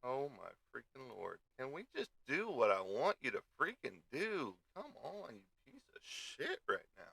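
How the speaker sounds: exasperated, pleading with the machine; frustrated at computer. Real, not acted. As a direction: grumble at a computer that won't cooperate. Yelling at slow computer.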